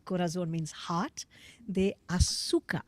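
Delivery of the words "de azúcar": whispered. Shown as a demonstration. Whispered Spanish phrase.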